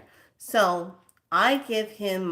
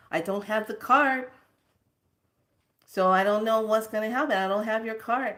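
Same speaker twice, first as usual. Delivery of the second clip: imitating a man protesting, higher and louder; defensive denial; 5 semitones higher, 5 dB louder than usual. Key guy denies having her card, mimicked defensiveness.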